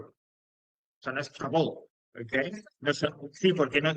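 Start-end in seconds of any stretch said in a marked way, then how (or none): 1.3-1.7 "travel" with a full Spanish-style second syllable, tra-bol; wrong pronunciation. Shown as a demonstration. Teacher repeating how it is not said, mispronounced. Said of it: "no suena exactamente".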